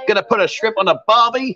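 cheesy mock-Aussie accent; bad Australian accent. Host imitating Australian men for the hostess, bad Australian accent. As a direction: attempt Australian and get it badly wrong. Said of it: "That's the worst Australian accent".

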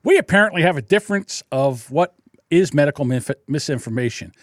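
defiant retort. Retold or imitated. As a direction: build from calm to taunting kiss-off. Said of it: "So I said".

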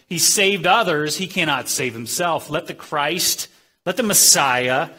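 retold jeer, loud bursts on key phrases; mocking. Chief priests taunting Jesus on the cross, mocking. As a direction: throw the taunt out as a quote. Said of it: "Again, the mockery, the derision".

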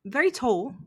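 halting put-on English accent; shaky attempt at English accent. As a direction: pick out words carefully in mock English. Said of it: "that English accent you tried to pull off".

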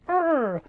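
mock hungry urgh; light comic groan of hunger. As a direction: groan from an empty tummy. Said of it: "tummies grumbling, and it's like".

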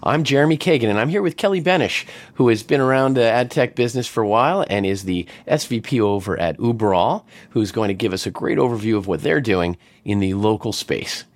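lively, sing-song show opener; podcast host intro. Acted. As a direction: welcome listeners with punchy, swinging emphasis. Host's scripted show intro.

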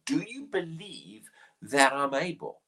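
a hushed whisper of the question; whispered question to the blind men. Acted. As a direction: whisper it close, like a secret. Repeating Jesus' question intimately.

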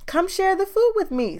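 high, friendly animal voice; Hog voice. Acted. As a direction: lift the voice up for Hog. Hog invites Anansi.

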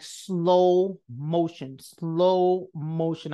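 drawn-out, slow-motion words. Retold or imitated. Speaker reliving the dreaded walk to her office, slow and drawn out. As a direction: stretch the words as if time drags.

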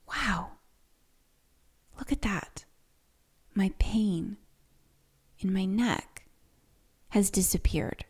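breathy near-whisper, soft, awed at the relief; whispered inner voice. Retold or imitated. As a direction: whisper it as if marvelling at the pain leaving. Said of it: "And I was like".

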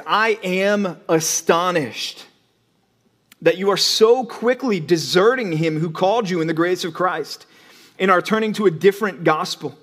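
the preacher reading Paul's rebuke aloud, measured and grave; scripture reading. Acted. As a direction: read it like a solemn letter. Reads Paul's letter.

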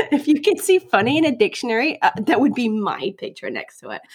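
mock-boastful American voice; playful American show-off; American accent. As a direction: brag jokingly in a put-on American accent. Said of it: "or an American accent".

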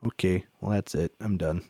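quiet resigned self-quote; resigned giving up. Retold or imitated. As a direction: mutter it like you're throwing in the towel. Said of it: "and then it's just like".

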